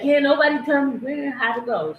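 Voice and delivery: girlfriend's defiant line, lightly imitated; mimicking her. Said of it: "and then she said".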